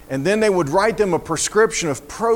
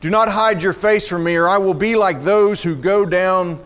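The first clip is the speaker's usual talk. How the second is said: dramatic psalm reading; 3 semitones higher than usual. Acted. Preacher reading of a fainting spirit begging God, dramatic lament. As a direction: begin faint, rise pleading, drop at the end.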